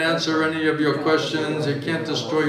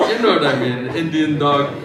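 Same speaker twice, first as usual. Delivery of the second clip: laughing; 4 dB louder than usual. Real, not acted. Laughing through the joke.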